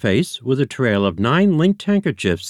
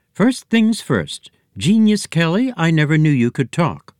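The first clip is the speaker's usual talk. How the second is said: amazed; 8 semitones higher, 4 dB louder than usual. A narrator's reading. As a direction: marvel that the pig talks. Startled by talking pig.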